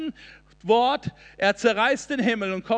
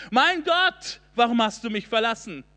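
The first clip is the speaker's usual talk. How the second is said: cry from the cross. Acted. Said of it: "dieser Sohn am Kreuz rufen muss".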